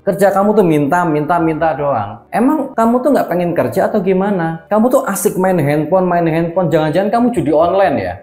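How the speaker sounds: half-acted exasperated dad; scolding father. Father scolding son Udin about not working, exasperated. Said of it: "Kata ayahnya si Udin".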